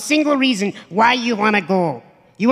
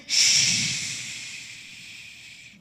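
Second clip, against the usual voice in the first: shushing; 9 dB quieter than usual. Real, not acted. Hushing the crowd.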